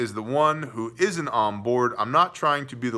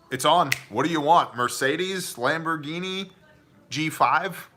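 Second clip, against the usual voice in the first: eager; 5 semitones higher than usual. Retold or imitated. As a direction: snap to it like a smitten husband. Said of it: "I'm like".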